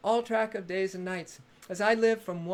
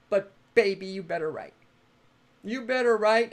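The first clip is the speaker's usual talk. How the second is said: playful warning; 6 dB louder than usual. Acted. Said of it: "teasing insistence".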